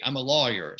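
"lawyer" with a rounded aw in the first syllable; Southern vowel. Shown as a demonstration. Linguist showing his US South accent, rounded aw. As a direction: keep the aw in "lawyer". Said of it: "So I would say".

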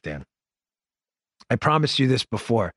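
ordinary talk

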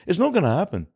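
high mock-British brush-off; imitating a famous singer. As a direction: turn him down as a cartoon British star. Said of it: "He just goes".

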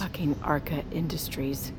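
a bitter unvoiced whisper; whispered curse. Realizing who owns the satellites, whispered curse. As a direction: spit the name out under your breath.

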